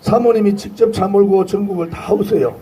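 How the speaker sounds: hoarse, worn-out rally voice. Real, not acted. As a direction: voice gone from shouting. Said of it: "다 목이 쉬었습니다".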